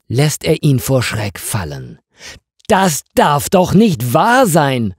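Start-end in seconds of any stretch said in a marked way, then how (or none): 2.7-4.9 raised, higher cry of disbelief; shocked exclamation. Acted. Florian finds his office sign gone, exclaiming loudly. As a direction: call out in stunned disbelief. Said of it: "ruft er".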